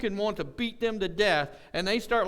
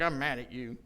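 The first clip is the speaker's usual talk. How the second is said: low, understated imitation of being mad; mock-serious anger; 6 semitones lower than usual. Wife announces to husband that she is mad, understated mock anger.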